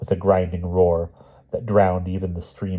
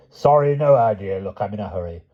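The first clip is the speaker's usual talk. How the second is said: nervous brush-off; 3 semitones higher, 4 dB louder than usual. Acted. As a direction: talk your way out fast. Wilby brushes him off.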